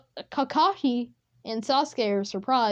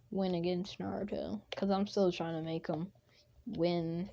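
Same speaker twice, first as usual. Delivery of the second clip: whisper; 3 semitones lower, 8 dB quieter than usual. Real, not acted. Unvoiced whisper aside.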